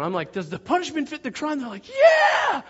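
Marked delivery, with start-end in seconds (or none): 0.3-1.6 raised, high-pitched crowd address; megaphone rabble-rouser. Retold or imitated. Leader on megaphone to the camp, high rousing call. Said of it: "I'm on the megaphone". 1.9-2.6 very high screamed yell; roaring crowd cheer. Retold or imitated. Kids answer the megaphone, high screaming cheer.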